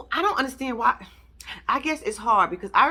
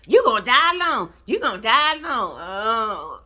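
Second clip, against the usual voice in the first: mock quote. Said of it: "what she be saying to him".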